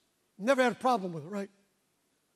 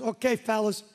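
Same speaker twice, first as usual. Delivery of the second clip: imitating Benny; 7 dB louder than usual. Preacher telling congregation how Benny summons pastors, mock imitation. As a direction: impersonate the evangelist calling the pastors. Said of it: "you know how he talks".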